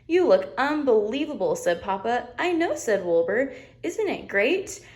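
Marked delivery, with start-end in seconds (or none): 0.1-1.6 louder, higher astonished dad; mock-shocked father; shocked papa. 2.4-4.9 much higher, louder gleeful lamb; high excited Wilbur; thrilled little lamb. Acted. Wilbur catchphrase.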